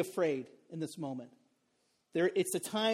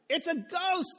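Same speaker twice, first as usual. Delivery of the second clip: mock fright; 10 semitones higher, slower than usual. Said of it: "they were terrified".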